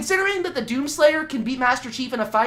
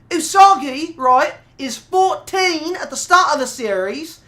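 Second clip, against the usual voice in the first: higher put-on Cockney accent held throughout; mock Cockney voice; 3 semitones higher, 4 dB louder than usual. Streamer answering chat questions in mock Cockney accent. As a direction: keep the cheeky Cockney bit going. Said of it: "I don't know why I'm still doing this voice".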